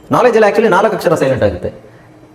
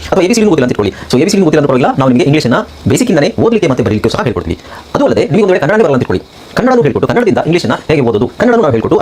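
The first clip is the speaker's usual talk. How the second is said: quick, upbeat course ad; ad read; 2 semitones lower, faster than usual. Acted. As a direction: sell the course briskly. (ವೇಗದ ಜಾಹೀರಾತು ಓದು)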